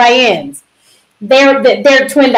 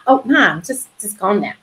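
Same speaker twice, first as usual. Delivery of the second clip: soothing; 3 semitones lower, 7 dB quieter than usual. Retold or imitated. Calming her worried mother.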